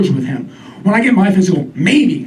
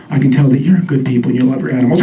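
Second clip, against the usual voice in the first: lower, dreamy psychic voice; medium voice; 5 semitones lower than usual. Retold or imitated. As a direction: read it like a cheesy psychic. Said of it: "very medium, I'm Connie voice".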